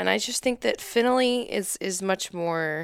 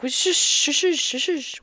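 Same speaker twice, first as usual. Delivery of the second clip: higher swooshing shush sounds; mock calligraphy swoosh; 7 semitones higher, slower than usual. Wife imitating fancy lettering strokes. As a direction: mimic a pen flourish. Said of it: "when you're like".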